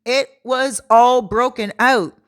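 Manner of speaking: loud, high gasp of shock; shocked whoa. Retold or imitated. Seeing the friend's broken-out leg on the beach, loud shock. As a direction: react to the rash with alarm. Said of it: "I was like".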